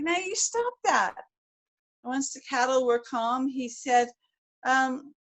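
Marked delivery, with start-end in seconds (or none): 0.0-1.1 stern cowboy. A narrator's reading. Cowboy scolding Bill.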